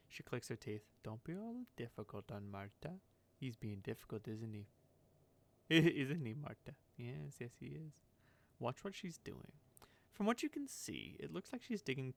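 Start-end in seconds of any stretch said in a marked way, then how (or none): 1.0-7.9 sing-song mumbling. Acted. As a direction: chide and answer yourself in a sing-song. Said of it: "mumbling to herself in a sing-song voice".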